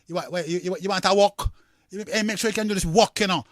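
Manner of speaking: lightly acted Jamaican street twang; a hint of Jamaican patois. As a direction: put on a bit of a Jamaican patois, like a mate calling out. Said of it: "I don't hear people talking like that".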